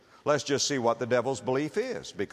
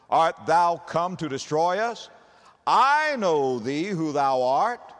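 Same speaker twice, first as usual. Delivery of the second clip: unclean spirit crying out; 2 semitones higher, 3 dB louder than usual. Acted. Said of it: "and he cried out".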